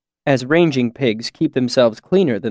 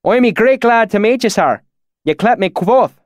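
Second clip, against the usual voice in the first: higher, louder fake backwoods dialect; put-on valley accent; 10 semitones higher, 4 dB louder than usual. Narrator poses as a local, put-on valley accent. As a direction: narrator fakes a rural accent to fit in. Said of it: "my sudden change in dialect".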